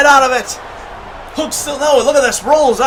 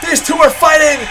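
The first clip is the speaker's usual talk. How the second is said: excited shout; 2 semitones higher, 4 dB louder than usual. Real, not acted. Brawl breaks out, commentator shouts.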